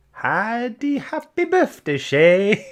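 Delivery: high, loud sing-song happy birthday; excited birthday greeting. Real, not acted. Host calling happy birthday to a viewer, high and loud. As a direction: cheer the name out brightly.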